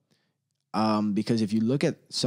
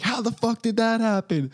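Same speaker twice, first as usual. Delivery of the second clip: high, loud disbelief; mock amazement; 11 semitones higher, 4 dB louder than usual. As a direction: act stunned.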